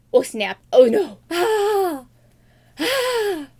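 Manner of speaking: high hammed-up wail; mock panic. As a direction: squeal it in fake alarm. Princess panics at parents.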